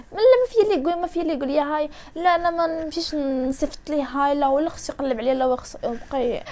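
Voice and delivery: high-pitched mock protest, easing down; mock refusal. Mimicking girls who refuse to say hi first, mock indignant. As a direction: imitate someone stubbornly refusing. Acts out a viewer's stubborn refusal.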